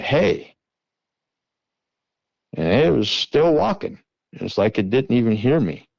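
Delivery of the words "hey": retold yell. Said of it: "I yelled at it".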